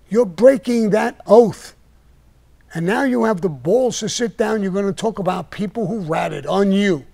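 forceful, emphatic reproach; heated dressing-down. Pretend. Mobster confronting a fellow member over a broken oath, heated and forceful. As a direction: lay into him, stressing the key words hard.

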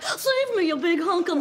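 high swooning damsel. Retold or imitated. Running to her date's arms, high and swooning. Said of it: "I just ran to your arms like".

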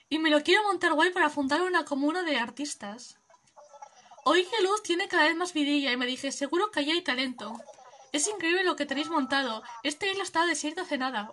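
easygoing peace-and-love drifter; hippie traveller. Acted. Streamer voicing Fauno greeting the player, mellow hippie voice.

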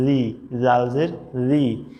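"রি" said slowly and thin; thin zal. Shown as a demonstration. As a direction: keep "রি" light and thin. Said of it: "পাতলা হবে".

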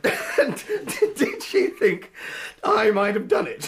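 drawn out through high laughter; laughing. Acted. Student still laughing at the inspector. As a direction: squeeze the words out between laughs.

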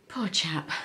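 whispered sympathy; whispering. Real, not acted. Sympathy for sick grandpa.

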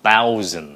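THOUSAND with firm, loud unaspirated th; correct th sound. Shown as a demonstration. Teacher demonstrating the tờ-like sound, firmly pronounced THOUSAND. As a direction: hit THOUSAND without a puff. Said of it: "nó là âm tờ".

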